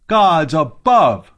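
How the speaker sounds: loud, high outraged cry; screamed. A narrator's reading. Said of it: "screamed a man standing nearby".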